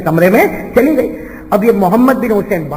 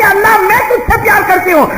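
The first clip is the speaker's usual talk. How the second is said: loud correction; 12 semitones higher, 3 dB louder than usual. Retold or imitated. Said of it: "یہ کہہ کہ".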